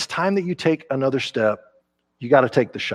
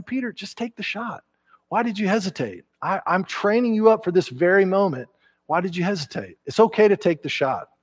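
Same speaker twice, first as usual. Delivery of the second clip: gentle encouragement; 4 semitones higher than usual. Acted. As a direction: coax him gently to shoot. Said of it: "it's like Jesus saying".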